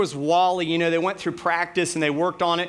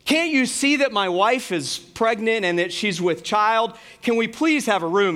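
raised, insistent stage plea; higher-pitched, dramatized begging for a room; expressive plea; 6 semitones higher, 4 dB louder than usual. Retold or imitated. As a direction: plead it like a child actor getting expressive. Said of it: "get a little expressive".

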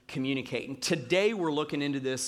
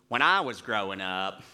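put-on daughter's Southern accent; 8 semitones lower than usual. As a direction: mimic a tween mocking dad in a Southern accent. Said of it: "she gives me this Southern accent".

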